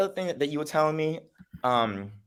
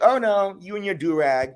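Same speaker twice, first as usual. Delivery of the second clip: higher, dismissive imitation of him; mock condescending friend; 8 semitones higher, 3 dB louder than usual. Friend laughing off the headscarf, mock condescending voice. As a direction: mimic his condescension in a higher voice.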